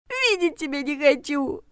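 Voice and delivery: high, slow, tearful refusal; sobbed. A narrator's reading. Regina refuses to see the heroine, sobbing. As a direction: push her away through tears. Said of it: "всхлипнула Регина".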